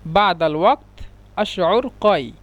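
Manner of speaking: বাদাল ওয়াক্ত আশউর কয় said slowly word by word; slow it down so learners catch each word; careful, slowed Arabic; slow repeat. Shown as a demonstration. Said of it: "এটা আরবি শুদ্ধ ভাষা হলো".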